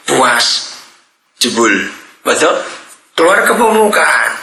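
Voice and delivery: ordinary talk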